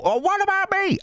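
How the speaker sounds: high falsetto granny calling out, demanding; jealous granny. Retold or imitated. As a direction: play a jealous old lady wanting attention.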